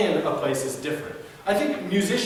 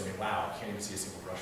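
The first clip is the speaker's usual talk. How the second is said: mocking art lover; 11 semitones lower, 14 dB quieter, much faster than usual. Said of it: "they'll say".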